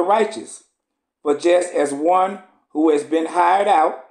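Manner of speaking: measured, solemn scripture reading. Acted. Preacher reading Esdras to the congregation, solemn. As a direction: read the old text with gravity.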